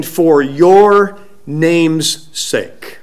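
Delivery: slow, even delivery of the phrase; measured prayer quote. Retold or imitated. Preacher quoting Hezekiah's prayer, slow and even. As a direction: draw it out without punching any word.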